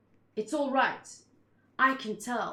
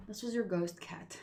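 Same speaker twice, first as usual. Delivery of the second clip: real hushed whisper; 2 semitones lower, 6 dB quieter than usual. Real, not acted. Whispering to viewers late at night so Joey doesn't wake. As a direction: whisper so no one wakes up.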